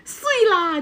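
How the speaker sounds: put-on high child calling out Taiwanese accent. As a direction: call it like a Taiwanese kid from afar. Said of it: "他远远的说".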